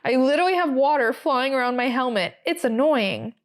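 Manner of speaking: put-on plain American accent. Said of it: "say it in an American accent".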